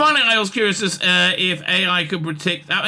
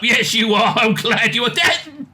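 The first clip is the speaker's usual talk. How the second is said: higher, mildly choked-up voice; 4 semitones higher than usual. Acted. Wilfred to the Doctor with gratitude, mildly choked up. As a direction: act lightly overcome with emotion. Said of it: "Wilfred choked up".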